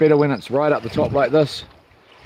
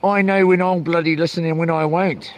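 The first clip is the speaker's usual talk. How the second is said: mock defiance; 2 semitones lower than usual. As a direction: play the stubborn bloke who won't be told. Mock defiant rant at wife.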